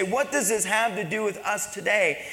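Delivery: projected rhetorical question; preaching question. Real, not acted. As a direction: put the question out to the whole church. Congregation's question, first put forcefully.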